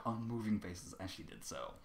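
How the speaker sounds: ordinary delivery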